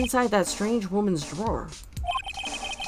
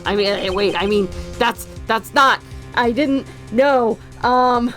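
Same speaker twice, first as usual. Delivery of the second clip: flustered; 4 semitones higher, 5 dB louder, slower than usual. Real, not acted. Flustered over his slip.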